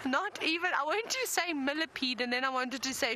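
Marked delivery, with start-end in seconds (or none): 0.1-0.7 stutter. Real, not acted. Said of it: "My stuttering this afternoon".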